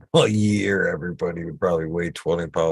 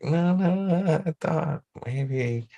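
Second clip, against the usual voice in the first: confused objection; 8 semitones higher, slower than usual. Acted. Puzzled listener rethinking a word, high mock protest.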